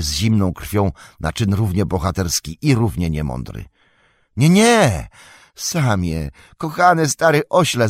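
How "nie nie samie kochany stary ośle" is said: high, loud alarmed cry; calling out. A narrator's reading. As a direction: stop Sam before he falls. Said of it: "zawołał Frodo". (głośny, wysoki, przestraszony okrzyk)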